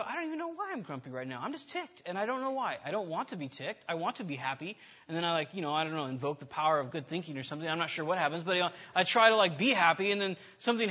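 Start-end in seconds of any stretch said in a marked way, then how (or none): 0.0-4.8 grumpy self-talk. Retold or imitated. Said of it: "sometimes I go".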